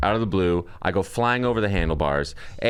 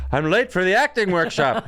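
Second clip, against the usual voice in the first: mock urgency; 9 semitones higher than usual. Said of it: "still in my head. I was like".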